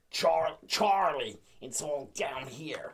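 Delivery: slow, drawn-out Danny DeVito-style Frank; slow gruff Frank voice; Frank impression. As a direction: growl it out slowly like Frank. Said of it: "this is a really good Frank impression".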